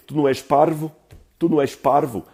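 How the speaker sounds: European Portuguese. Retold or imitated. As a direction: quote it the way someone from Portugal would, "Tu não és parvo?". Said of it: "Em português de Portugal, eu diria".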